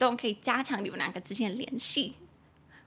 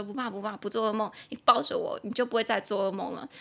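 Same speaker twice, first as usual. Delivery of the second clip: soothing. Retold or imitated. Partner soothing after nightmare.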